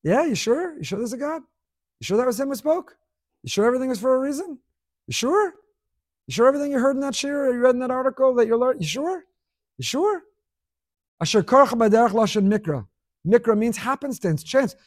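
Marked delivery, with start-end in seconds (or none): 0.0-10.2 light, needling questions rising high; casual taunting Amalek. Acted. Amalek casually needling the Jew with doubt. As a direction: tease him with doubt, casually. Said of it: "Amalek just casually came along and said".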